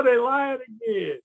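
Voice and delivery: slow knowing drawl; mock weary joke. Repeating the joke for listeners, lighter drawl. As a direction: shrug it off with a grin. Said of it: "You're like".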